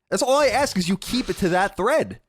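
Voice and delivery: high, mock-wounded plea; mock pleading. Mock plea about insult thread.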